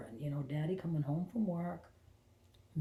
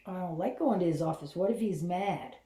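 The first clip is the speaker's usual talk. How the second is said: put-on inner child voice; 2 semitones higher, 6 dB louder than usual. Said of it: "And I got".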